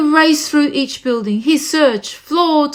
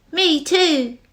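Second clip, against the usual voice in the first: a lightly higher tiny echo; little joey; 4 semitones higher than usual. Acted. Joey in the pouch agreeing, a light small voice. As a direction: pipe up like a small child. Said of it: "the young kangaroo in her pouch said".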